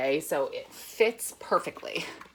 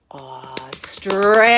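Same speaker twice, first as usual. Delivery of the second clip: slow whisper, drawn out; 5 semitones lower, 8 dB louder, slower than usual. Shown as a demonstration. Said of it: "I want you to do this".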